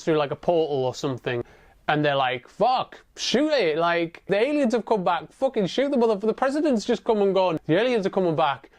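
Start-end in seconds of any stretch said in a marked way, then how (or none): 2.5-8.7 panicked soldiers. Retold or imitated. Soldiers panic at alien ship.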